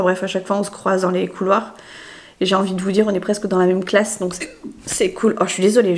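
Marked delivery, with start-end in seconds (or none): 2.4-6.0 hiccuping while speaking; small hiccups between words. Real, not acted. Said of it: "j'aime pas du tout ce hoquet".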